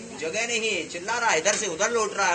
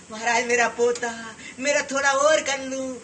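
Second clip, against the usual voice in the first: put-on higher, pleading greedy old man; clinging old man; 4 semitones higher than usual. Monk mimicking a worldly old man to listeners, pleading whine. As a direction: whine out every possession you cling to.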